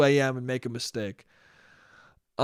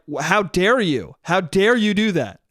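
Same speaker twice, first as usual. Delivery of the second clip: mock outrage, swooping up on "dare"; mildly hammed-up affront; retold yelling. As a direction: imitate an indignant woman scolding. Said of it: "the woman keeps yelling at him".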